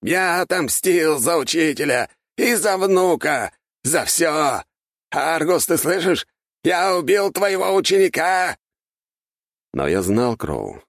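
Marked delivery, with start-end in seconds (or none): 0.0-8.6 very high, louder cries; frenzied victorious shouting. Acted. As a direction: howl it to the sky. Archmage screams vengeance to heavens.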